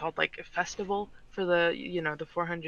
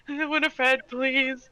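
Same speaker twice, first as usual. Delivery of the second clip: higher, nervous plea; pleading; 7 semitones higher, 4 dB louder, much slower than usual. Acted. William after Winifred's glare, pleading in a raised pitch. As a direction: beg her to back off.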